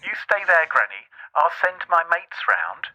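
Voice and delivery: head granny off fast; playing Steve in a panic. Plays Steve refusing granny's visit.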